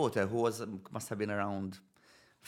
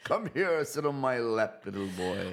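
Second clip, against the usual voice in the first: creepy Santa; slower than usual. Pretend. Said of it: "that's also wrong".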